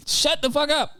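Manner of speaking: laughing retort. Real, not acted. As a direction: laugh it out while dismissing. Repeats with a laugh.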